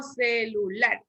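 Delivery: "celular" slowly, stressed as ce-lu-LAR; stress on last syllable. Shown as a demonstration. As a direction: lean on lar at the end of "celular". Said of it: "¿Dónde llevará el acento".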